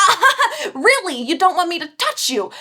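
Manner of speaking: laughing, teasing a mock question up high. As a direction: tease him through a laugh, mock disbelief. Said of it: "And Kenji's like".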